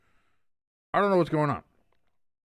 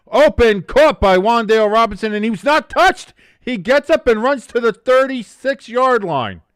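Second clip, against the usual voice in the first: higher, louder rising play-by-play; excited call; 4 semitones higher, 4 dB louder than usual. Real, not acted.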